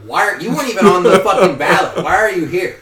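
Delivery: mock outraged rant. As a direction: huff at the pointless guest. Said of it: "I was like".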